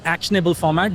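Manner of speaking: "actionable format" set apart and stressed; emphasised term. Real, not acted. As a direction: underline "actionable format" with your voice. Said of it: "gonna underline this word".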